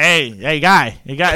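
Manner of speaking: put-on New York accent. Imagining what they would say, the speaker puts on a forced New York accent. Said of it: "Your jazzy accent will yeah, come out".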